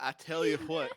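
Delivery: mock Texan. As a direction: drop a folksy Texan catchphrase. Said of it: "make me sound convincing like Texan".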